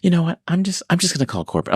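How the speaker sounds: high, huffy impression of a caller; mad customer. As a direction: imitate an irate customer refusing and threatening. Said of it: "she gets mad at me".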